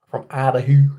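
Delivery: Idaho said as "ædəhu", like a Canadian; a hint of Canadian in "Idaho"; Canadian-sounding accent. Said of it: "That sounds more Canadian".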